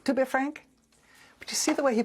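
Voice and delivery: fake French accent retry. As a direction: lift the pitch and try the French accent again, lightly hammed-up. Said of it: "I can't even do a fake French accent".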